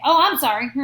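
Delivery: flippant, insincere sorry before running off; careless sorry. Shown as a demonstration. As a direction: toss off a sorry you don't mean. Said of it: "It's easy to say".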